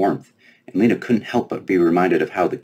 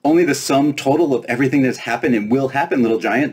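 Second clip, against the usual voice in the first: high, boastful fairy voice; proud fairy; 8 semitones higher than usual. Acted. Fairy boasting to Lena about the book, high and proud. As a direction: puff up with fairy pride. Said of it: "the fairy said proudly".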